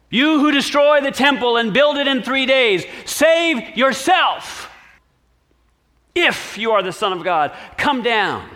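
high, loud jeer; passers-by taunting the crucified man; mocking taunt. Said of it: "blasphemed him".

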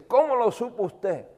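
mock tearful amazement; tearful question again. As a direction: voice the crying woman's amazement. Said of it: "la mujer llorando".

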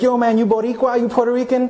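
put-on tossing the question like a teen on the block; a hint of a Staten Island teen asking; Puerto Rican high schoolers. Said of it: "they'd be like".

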